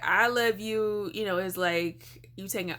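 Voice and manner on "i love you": "I love you" with the "I" drawn out slowly; slow stress on I. Shown as a demonstration. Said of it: "but, like".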